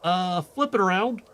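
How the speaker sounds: heated accusation. Acted. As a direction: call out the impostor. Villain unmasked, heated exchange.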